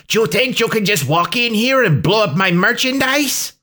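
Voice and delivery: put-on high-pitched, angry Hispanic-accented villain; thick Hispanic accent. A narrator's reading. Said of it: "growled Chico Juarez in a thick Hispanic accent".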